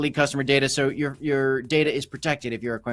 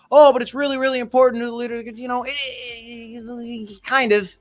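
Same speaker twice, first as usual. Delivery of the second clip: mocking quote; 6 semitones higher than usual. Mocking politics fans' argument.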